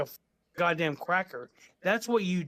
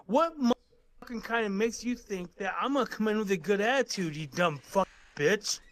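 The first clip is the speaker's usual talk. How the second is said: tough talk, slowing down on the closing insult. Real, not acted. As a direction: talk like you're tough on the phone. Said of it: "let's stop the tough talk".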